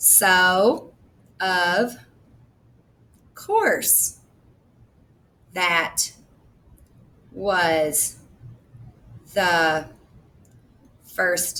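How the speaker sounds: very slow, halting, choppy word-by-word robotic reading. Showing listeners a poor way to read the third grade book aloud: choppy robotic reading. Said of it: "That sounds more like a robot. ... I'm sounding choppy, like a robot".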